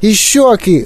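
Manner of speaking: high, alarmed little cry; wailing. A narrator's reading. Mother spots the cheeks changing too, wailing. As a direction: wail it in mounting horror. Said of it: "лементувала пані Борегард".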